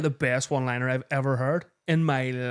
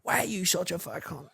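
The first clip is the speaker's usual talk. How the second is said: mocking kid; 5 semitones higher, 7 dB quieter than usual. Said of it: "he says to him".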